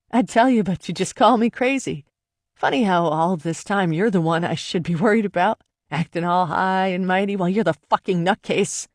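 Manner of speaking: mean it to wound him; spat words. Acted. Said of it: "I spat the words at him".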